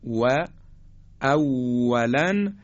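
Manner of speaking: «و» as a W with gathered lips, then a slow «اولاً»; slow contrast demo of W, no teeth; pursed-lip W. Shown as a demonstration. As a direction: round the lips and hold the W in «اولاً». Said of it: "اگر لبها رو جمع بکنیم".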